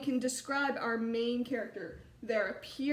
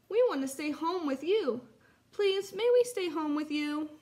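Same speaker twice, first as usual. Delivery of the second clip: higher-pitched, lightly voiced pleading child; pleading cub; 5 semitones higher, 4 dB louder than usual. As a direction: plead gently, like a little one to mum. Cubs plead with mother in story.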